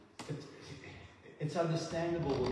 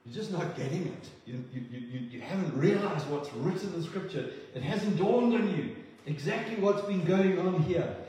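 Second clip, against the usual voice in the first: gentle rebuke; 3 semitones higher than usual. Retold or imitated. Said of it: "And he's going".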